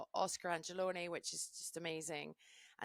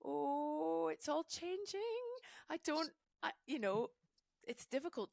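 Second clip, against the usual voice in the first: mock lament; 10 semitones higher than usual. Speaker voicing her inner grumbler, mock lament. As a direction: ham up a little pang of loss. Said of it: "a little part of me, that goes".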